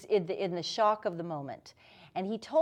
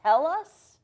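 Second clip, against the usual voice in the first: hysterical; 3 semitones higher, 4 dB louder, slower than usual. Retold or imitated. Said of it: "I was hysterical, I was screaming".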